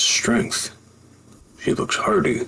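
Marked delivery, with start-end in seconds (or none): 1.6-2.4 smitten admirer. Acted. Admiring the woman.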